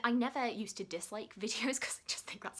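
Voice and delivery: whispered confession with a laugh; whispered aside. Real, not acted. Confessing something a bit naughty.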